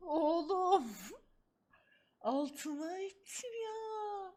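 teary helpless laughter; laughing till crying. Real, not acted. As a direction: laugh so hard it hurts.

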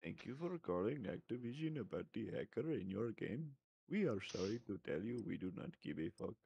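put-on Indian accent. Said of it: "Indian accent".

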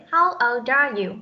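put-on "old are" joined through the D; linked sounds. Shown as a demonstration. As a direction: carry the D of "old" straight into "are". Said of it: "Nối với âm D với âm R". (nối âm D của "old" sang "are")

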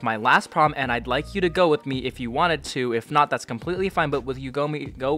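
deliberate read-out of a message; slow reading. Acted. YouTuber reading a fan's prom invite, slow and careful. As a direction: read carefully, stumbling over odd grammar. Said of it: "I'm gonna read this slowly again".

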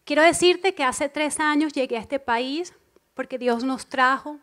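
usual speaking voice

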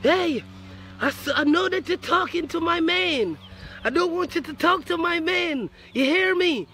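mocking an angry mother's warning; mama's warning. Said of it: "Mama say".

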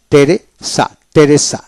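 টেরেসা starting on a plain T; silent H. Shown as a demonstration. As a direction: say টেরেসা with the H left out. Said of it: "এইচ উচ্চারণ হবে না".

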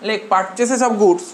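each word drawn out slowly for notes; slow dictation. Shown as a demonstration. Teacher to class taking notes, slow dictation. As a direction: dictate slowly so students can write. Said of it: "এরপরে তোরা লেখ".

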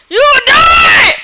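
high, slow shouted threat; mock villain threat. Gamer threatening a noob player, slow hammed-up shout. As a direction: draw out the threat like a cartoon villain.

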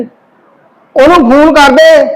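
very slow, drawn-out command; slow menacing order. Acted. Husband ordering wife to call, very slow and menacing. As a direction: spell the order out slowly.

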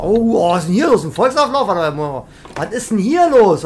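loud, excited "what's going on" surprise; astonished outburst. Pretend. Driver spotting a crowd in the street, astonished outburst. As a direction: react loudly to a sudden crowd.

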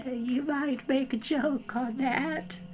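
small high gnat; tiny gnat voice. A narrator's reading. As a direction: squeak it like a tiny insect at her ear. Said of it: "said the little voice".

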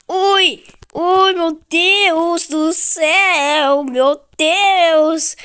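high, loud startled cries. Real, not acted. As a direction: gasp it out after a near miss. Narrow escape in game.

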